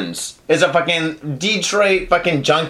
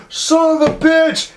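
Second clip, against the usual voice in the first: high, drawn-out intruder's cry; mock angry curse; 11 semitones higher, slower than usual. Intruder cracking open the door, mock angry curse. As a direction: curse like a hammed-up attacker. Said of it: "he's like".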